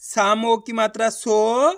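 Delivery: very slow, drawn-out "साम ओ की मात्रा सो"; teacher repeating "सो" slowly for students. Shown as a demonstration. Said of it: "चलिए एक बार फिर से देखिए".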